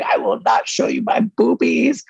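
high, slow put-on girly voice, mocking; prim refusal. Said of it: "And she's like".

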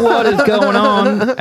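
retelling a fight, voicing their confused reaction; mock bewilderment. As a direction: stretch it out in disbelief. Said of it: "And we're like".

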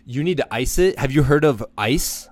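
lightly voiced worried mom; nagging mom. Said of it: "she'll be like".

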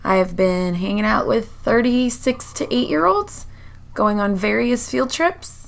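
slightly hoarse, worn-out voice; hoarse from yelling. Real, not acted. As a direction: talk through a tired, rough throat. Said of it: "My voice is a little shot".

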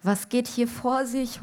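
high, mildly wailed question; wailing mother. A narrator's reading. Mother despairs over her girls, high mock wail. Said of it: "heulte Mutti".

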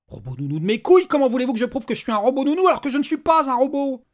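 loud, high, exasperated rant; furious outburst. Acted. Father rages at the robot's absurd rules. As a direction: blow up in disbelief.

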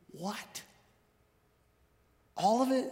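high surprised disbelief; mock amazement. Preacher to congregation, mock astonished. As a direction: act astonished at the news.

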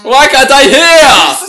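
laughing. Real, not acted. Laughing at cohost.

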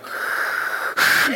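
long hissing breath noise; imitated mask breathing. Paramedics in gas masks over wife, imitated hissing.

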